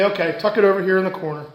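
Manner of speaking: calm a worried customer down; kind reassurance. Retold or imitated. Associate reassuring a stranded customer, soft and kind. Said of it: "Or he can say".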